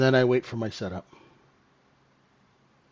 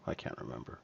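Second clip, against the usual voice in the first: soft muttered whisper; whispered aside; 14 semitones lower, 20 dB quieter than usual. Real, not acted. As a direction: drop to a private whisper. Muttered aside mid-story.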